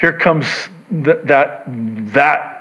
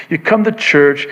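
ordinary delivery

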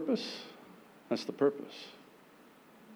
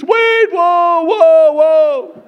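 high panicked yell; 16 dB louder, much slower than usual. Acted. Believer spinning on wheel.

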